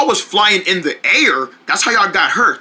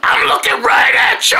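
high shouted cry mid-flight; high excited yell in the air; flying shout; 13 semitones higher than usual. Acted. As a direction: yell it while soaring.

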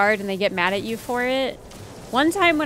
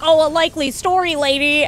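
sneering, louder and higher; sarcastic; 4 semitones higher, 5 dB louder than usual. Retold or imitated. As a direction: scoff it like a suspicious neighbor. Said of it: "he's like".

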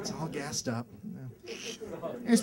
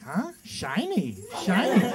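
dumb distracted guy; much slower than usual. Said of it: "You'd be like".

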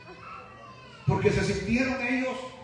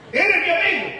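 emphatic retold line; 8 semitones higher, 6 dB louder than usual. Preacher retells telling a friend.

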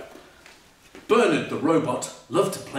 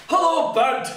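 lightly voiced monkey; 11 semitones higher, 4 dB louder than usual. Monkey character voice.

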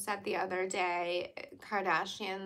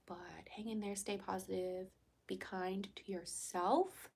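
soft whisper; 7 dB quieter than usual. Real, not acted. Whispered reassurance.

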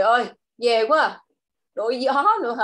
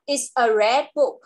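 model sentence; slower than usual. Shown as a demonstration. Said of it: "Nào".

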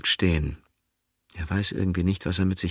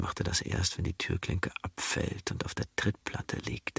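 hushed, breathy whisper; quiet narrator whisper; 8 dB quieter than usual. A narrator's reading. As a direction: whisper it close to the ear. Quiet inner thought in story.

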